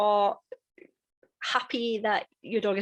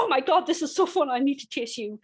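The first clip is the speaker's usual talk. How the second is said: dog's voice; 4 semitones higher than usual. Pretend. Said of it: "your dog will go".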